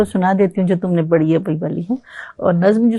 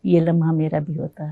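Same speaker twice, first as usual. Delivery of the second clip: stately nazm recitation. Acted. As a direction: recite the woman's reply gently. Woman's reply in nazm.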